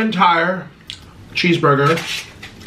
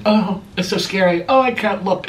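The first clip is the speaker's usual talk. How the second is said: mock offended; 5 semitones higher than usual. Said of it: "acting all offended and all like".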